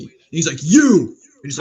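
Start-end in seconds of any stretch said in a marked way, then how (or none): 0.6-1.1 loud imitated "you"; single punched shout, singling someone out; retold distant yell. Player singling out a teammate, mock shout. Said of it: "yelling from a distance".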